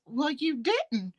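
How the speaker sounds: slow, soft, dry retort. Retold or imitated. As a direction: deliver it flat and cutting. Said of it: "April says".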